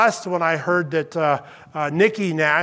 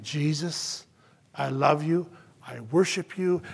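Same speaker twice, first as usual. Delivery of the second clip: soft worshipful prayer; 2 semitones lower, 5 dB quieter than usual. Pretend. Believer praying to Jesus, soft and devoted. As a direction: breathe it like a prayer.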